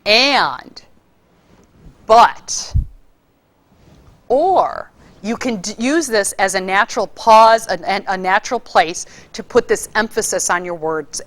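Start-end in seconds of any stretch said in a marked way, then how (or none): 0.0-4.9 And, but, or each lifted and drawn out; rising, stretched And, but, or; stretched conjunctions. Shown as a demonstration. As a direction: let each word climb a little. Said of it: "is when you see conjunctions".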